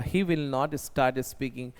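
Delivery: very slow, each word laid out for the class; slow model sentence. Shown as a demonstration. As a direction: dictate it slowly like a teacher. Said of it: "बोलना start नहीं करेगा". (बहुत धीरे, साफ़-साफ़)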